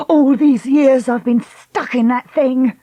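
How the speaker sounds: slow, bitter voice; bitter lament. Acted. Lucy bitter.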